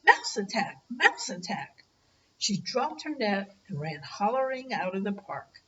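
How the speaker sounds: gentle storybook reading voice; story narration. Acted. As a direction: read it like a bedtime picture book. Grandparent reads picture book aloud.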